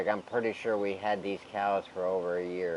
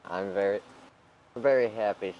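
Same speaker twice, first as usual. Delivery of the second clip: hiccups; 4 dB louder than usual. Real, not acted. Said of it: "Sorry, I got the hiccups".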